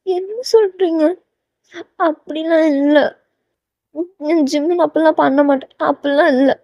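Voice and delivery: high, small voice of denial; heartsick disbelief. Acted. Heroine hearing Jimin loves someone else, hurt disbelief. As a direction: protest softly and high, unwilling to believe it. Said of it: "ஹார்ட்டுன்னு ஒருங்குன மாதிரி".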